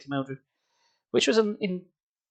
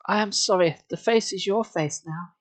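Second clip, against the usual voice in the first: without expression; 5 semitones higher than usual. Acted. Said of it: "without expression".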